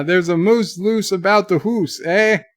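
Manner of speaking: mild mock Canadian accent on "hoose"; put-on Canadian. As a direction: say "hoose" to rhyme with moose, Canadian-style. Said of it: "that was my Canadian".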